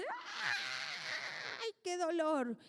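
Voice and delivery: hammed-up cry of grief, leaping high; a showy fake lament; mock loud wailing. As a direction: wail it like an over-the-top mourner. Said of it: "gritar más que el deudo o a llorar más fuerte".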